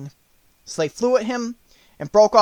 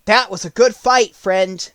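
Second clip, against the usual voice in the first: cheerful Scarecrow; 3 semitones higher, 6 dB louder than usual. Acted. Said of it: "who said".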